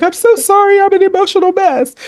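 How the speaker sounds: high, small apologetic voice; mock sheepish apology; apologetic client. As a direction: imitate a flustered client.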